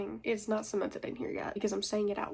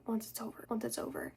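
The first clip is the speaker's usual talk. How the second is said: fading echo; 5 dB quieter, faster than usual. Shown as a demonstration. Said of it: "just keeps repeating in your head".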